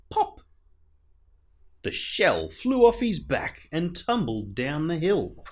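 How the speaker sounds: put-on lively read-aloud for children; gentle sing-song story narration; storybook reading. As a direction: read it like a bedtime picture book. Reads a picture book aloud.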